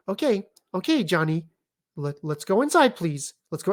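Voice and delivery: mock coaxing, conciliatory parent. Parent coaxing Johnny to go inside, conciliatory. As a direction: imitate a parent pleading with a child. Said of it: "He hears the conciliatory tone in your voice".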